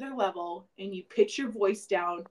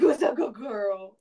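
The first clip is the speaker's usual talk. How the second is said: pet talk voice; 4 dB louder than usual. Retold or imitated. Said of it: "that weird baby voice".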